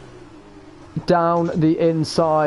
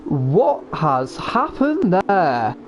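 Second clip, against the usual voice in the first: very slow, stunned and level; slow disbelief; 2 semitones higher, much slower than usual. Real, not acted. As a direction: drag it out in disbelief. Replaying the crash.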